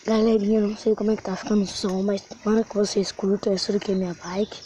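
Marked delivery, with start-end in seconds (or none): 0.0-3.5 inside a helmet. Real, not acted. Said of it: "então eu vou colocar o capacete aqui". (voz abafada dentro do capacete)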